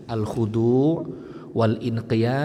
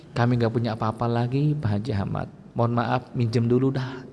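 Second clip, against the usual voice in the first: humble plea; 3 semitones lower than usual. Retold or imitated. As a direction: ask the rich man meekly. (memohon dengan rendah hati kepada Pak Haji Ahmad)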